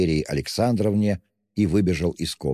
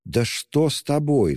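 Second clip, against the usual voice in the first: high, sharp alarmed cry; mother cries out in alarm to her son; 9 semitones higher than usual. A narrator's reading. Mother startled by her son, crying out high. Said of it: "вскрикнула мать".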